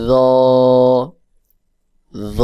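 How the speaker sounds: র as a rounded "dho", tongue tip on teeth, held; rounded heavy zho. Shown as a demonstration. Teacher showing the letter's round sound, র as heavy "dhoo". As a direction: say র as a long, round, voiced-th "dhoo". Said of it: "গোল মতো করে হয়".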